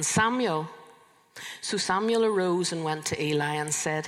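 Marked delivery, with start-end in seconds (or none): 0.0-0.7 lightly raised calling voice. A narrator's reading. The Lord calls the boy again, calling out. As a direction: call the name a little higher, mildly. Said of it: "Then the Lord called again".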